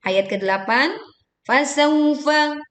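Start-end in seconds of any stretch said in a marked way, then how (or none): 1.4-2.6 higher "fasawfa" with a smooth aw; soft waw glide. Shown as a demonstration. Teacher modelling waw lin for learners, soft glide. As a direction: chant "fasawfa" slowly, gliding gently into w. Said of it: "dibaca dengan lembut".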